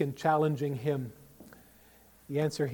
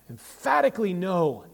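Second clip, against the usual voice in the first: loud, higher-pitched refusal; firm pulpit denial; emphatic negation; 4 semitones higher, 5 dB louder than usual. Retold or imitated. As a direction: deny it with real force. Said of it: "one of Paul's emphatic, uh, negations".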